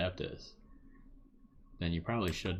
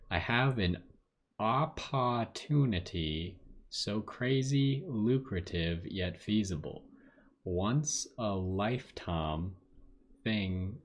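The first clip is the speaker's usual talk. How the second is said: slow, drawn-out southern reading; southern accent; slower than usual. Acted. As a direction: read it in a slow southern drawl. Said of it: "like a southern accent".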